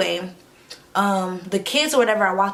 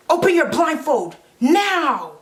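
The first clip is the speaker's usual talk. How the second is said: high, slow, slightly louder eerie command; sinister entity; 7 semitones higher, 4 dB louder, slower than usual. Retold or imitated. The entity posing as Mallory, slowly luring the girl. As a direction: lure her like a creepy spirit. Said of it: "they're like".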